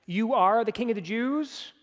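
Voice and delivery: "You are the king of the Jews?" as a statement that rises at the end; rising on Jews. Shown as a demonstration. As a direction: let the voice climb on "Jews". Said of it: "his voice goes up at the end".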